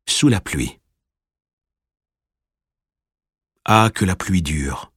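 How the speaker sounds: slow, measured poem recital with long pauses; poem reading. Acted. Reader reciting the poem Sous la pluie, slow poem reading. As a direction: recite it unhurriedly, letting each line settle.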